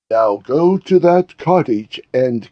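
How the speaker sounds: slow, commanding order; a touch of menace in the command; stern order. Acted. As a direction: order the henchmen to go kill the cat. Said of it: "Letitia ordered".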